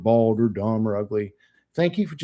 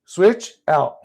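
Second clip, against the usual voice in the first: guided breathing cue; 6 semitones higher, 3 dB louder, much slower than usual. Shown as a demonstration. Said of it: "Alternate nasal breathing".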